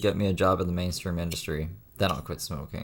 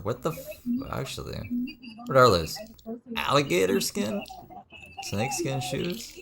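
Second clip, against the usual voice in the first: high, startled disbelief; surprised; 11 semitones higher, slower than usual. Real, not acted. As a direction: react in shock at the shoes. Shocked at the shoes.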